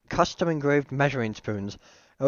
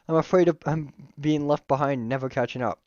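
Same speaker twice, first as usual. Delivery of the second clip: slightly higher-pitched worried character voice; lightly voiced anxious friend; fretful, a touch higher; Miriam; 3 semitones higher than usual. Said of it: "switch to my slightly higher pitched voice when I'm doing her".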